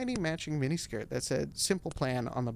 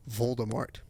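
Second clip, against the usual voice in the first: whisper; 3 semitones lower than usual. Acted. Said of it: "unvoiced whisper reveal".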